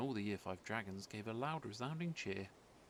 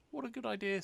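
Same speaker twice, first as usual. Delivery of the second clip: high, eager exclamation; young dragon thrilled by the offer; delighted; 11 semitones higher, 4 dB louder, faster than usual. A narrator's reading. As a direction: pop up with glee. Zog delighted by idea.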